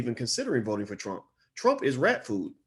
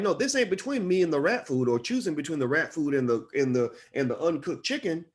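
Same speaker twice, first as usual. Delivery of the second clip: high, heated protest in a raised pitch; exasperated outburst; 5 semitones higher than usual. Retold or imitated. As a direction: pitch it up and push back, fed up. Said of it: "And I'm like".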